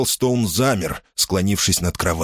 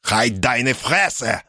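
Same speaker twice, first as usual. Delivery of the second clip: snapping back; 4 semitones higher, much slower than usual. Acted. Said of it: "огрызнулся в ответ Мюллер".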